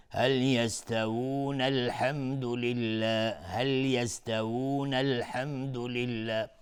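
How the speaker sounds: slow, drawn-out Quran recitation; tajweed recitation. Shown as a demonstration. Teacher demonstrating the joined reading, slow recitation. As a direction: recite slowly, stretching each vowel.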